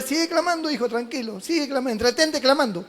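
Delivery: soft, gentle reassurance; calm the crying son; tender fatherly hush; soothing God. Acted. Y Dios dice.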